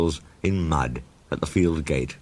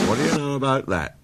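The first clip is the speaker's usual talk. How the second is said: quick Percy voice; 7 semitones higher, faster than usual. A narrator's reading. Percy exclaims.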